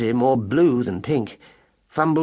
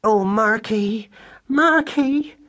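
high, slow, louder anxious wail; distracted cry; 10 semitones higher, 4 dB louder, much slower than usual. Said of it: "cried Madeline in a distracted voice".

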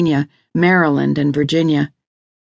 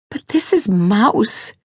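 higher, drawn-out plea; pleading wife; 6 semitones higher, slower than usual. Acted. Lydia appeals to Reese over Mouse, pleading. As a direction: voice a distressed wife, slow and high. Upset wife urging husband.

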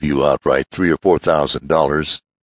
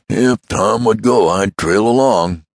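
odd man's eager voice; 7 semitones higher, 4 dB louder, slower than usual. Acted. The odd man chimes in.

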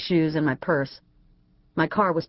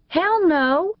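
emphatic refusal; 12 semitones higher, 4 dB louder than usual. A narrator's reading. Firm refusal, voice jumps high.

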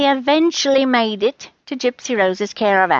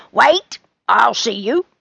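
moderately raised call; called-out shout; 4 dB louder than usual. A narrator's reading. Rose calls Charlie back from behind the curtain, mild shout. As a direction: call after someone walking away. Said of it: "Rose shouted from behind".

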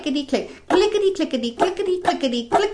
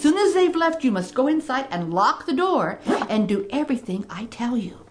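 lower, solemn instructions; grave wise woman; 4 semitones lower than usual. Acted. Wise woman gives grave advice.

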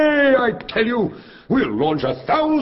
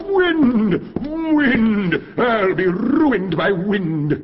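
raging; 6 semitones higher, much slower than usual. Acted. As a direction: rage at the wind. King raging at wind.

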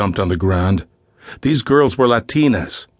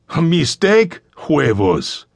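put-on scornful kidnapper with a light Spanish accent; Spanish-accented English; 6 semitones higher, slower than usual. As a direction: throw the word back in a Spanish accent. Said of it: "He addressed the fathers in accented English".

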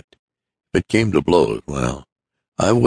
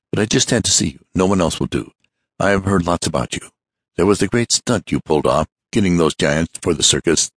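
fussy hurried man; 3 semitones higher than usual. Acted. Hurried visitor talking.

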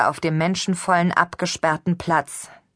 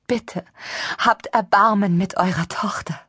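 whisper; 3 semitones higher than usual. Acted. Mother pleads with her husband.

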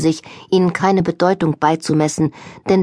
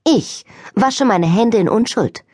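earnest declaration; 3 semitones higher than usual. Acted. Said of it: "erklärte sie ernst".

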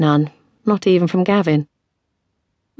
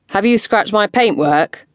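annoyed shout; 5 semitones higher, slower than usual. Acted. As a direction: shout it, fed up. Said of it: "sounding more annoyed than ever".

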